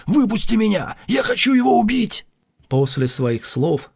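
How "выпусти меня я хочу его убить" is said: raging shout, much higher and louder; berserk rage. A narrator's reading. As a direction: scream it in a frenzy of rage. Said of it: "в ярости закричал".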